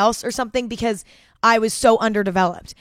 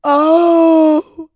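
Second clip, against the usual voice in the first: long, high, loud laughing wail; loud teary laugh; shrieking laugh; 8 semitones higher, 9 dB louder than usual. Real, not acted. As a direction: let out a helpless laughing shriek. Laughing fit after the punchline.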